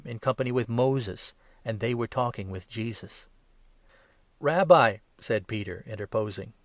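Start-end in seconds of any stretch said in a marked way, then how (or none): 4.4-5.0 high, loud eager call; excited outburst. A narrator's reading. Peter to Jesus on the mountain, a high, loud eager call. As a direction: blurt it out in awe.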